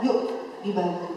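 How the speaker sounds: put-on gently offering help to a child; patient, soothing questioning; calm, patient. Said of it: "sabarkan dengan tenang dan kita bilang".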